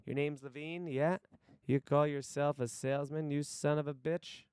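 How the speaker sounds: lightly acted intimidating boss; monologue audition voice. Boss from downtown berating salesman Levine, lightly acted monologue voice. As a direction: challenge them, building toward the final insult. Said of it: "Here's my monologue audition".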